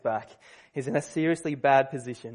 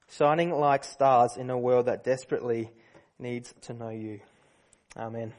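prayer; 2 semitones lower than usual. Real, not acted. Pastor prays for the congregation before the sermon, reverent. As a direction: pray it reverently, unhurried.

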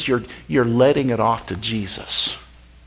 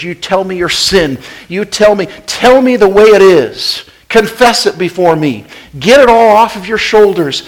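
God's invitation; 3 semitones higher, 6 dB louder than usual. Retold or imitated. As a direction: urge them to pour it all out, swelling. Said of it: "What he's saying is".

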